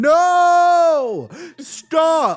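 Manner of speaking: shrill, very high, full-volume, drawn-out yell. Retelling how an uncle grabbed someone mid-step: imitating someone shouting.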